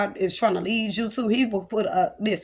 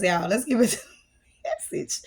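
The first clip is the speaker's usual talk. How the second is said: whispered with a giggle; playful whisper. Real, not acted. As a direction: let it slip out as a secret. Playful aside before the message.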